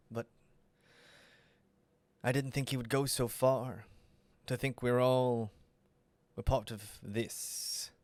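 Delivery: subdued guardian, slightly troubled; lightly voiced Guardian. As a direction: answer quietly, with hesitant pauses. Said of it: "And the Guardian".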